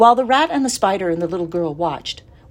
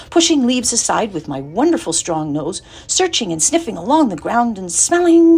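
dreaming pig; 6 semitones higher, 4 dB louder than usual. A narrator's reading. Wilbur dreams of forest.

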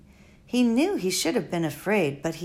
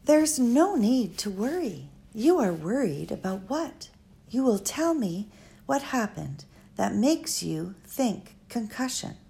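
lightly voiced elderly foreign woman, musing; a hint of an old, wise, rambling lady; Doctor Measham. Old doctor musing to Flora at the bedside, lightly voiced.

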